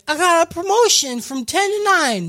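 the priestess bursts in with news, eager; eager announcement. Retold or imitated. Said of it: "she's like".

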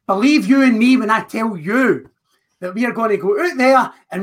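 fired-up wrestling trash talk; rally the crowd like a heel; wrestling promo. Acted. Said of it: "Cutting a promo".

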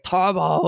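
put-on "Turbo" as "Tarbo" in a thick Austrian accent; "Turbo" mispronounced Austrian style; Arnold saying Turbo. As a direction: say "Turbo" with an open Austrian "ar" sound. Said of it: "he can't even say turbo".

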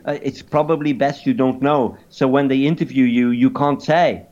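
calm, evasive mock-French voice; caricature French accent. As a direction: deflect in a put-on French accent. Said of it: "in a caricature French accent".

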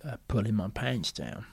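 soft, hesitant nervous admission; Lovejoy. Acted. Actor nervous about undressing, soft and hesitant. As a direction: admit it quietly, with a halting pause. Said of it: "He says".

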